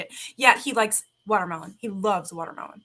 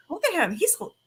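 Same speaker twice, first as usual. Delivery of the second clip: much higher cooing; cute high voice; 10 semitones higher than usual. Retold or imitated. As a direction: gush at the chipmunk. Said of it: "I was like".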